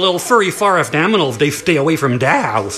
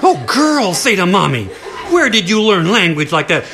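shocked mommy. Acted. Mommy scolds, laughing.

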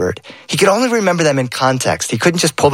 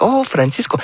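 sweet aunt; 7 semitones higher than usual. Retold or imitated. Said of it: "Sometimes she's sweet".

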